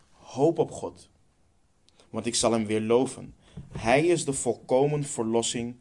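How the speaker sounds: measured psalm reading with weighty pauses; solemn scripture reading. Acted. Preacher reads a psalm to the congregation, solemn and measured. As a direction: read it out phrase by phrase, stressing key words.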